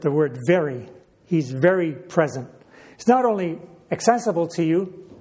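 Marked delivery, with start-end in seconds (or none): 0.0-2.5 very pressed, lower and falling; stress on very. Shown as a demonstration. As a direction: lean on very, settle it down. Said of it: "the writer adds the very word".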